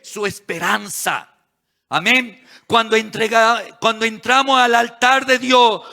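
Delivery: emphatic sermon with stretched key words; forceful preaching. Real, not acted. Preacher telling church Abraham's altar meant surrender, forceful. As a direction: drive each item home to the congregation.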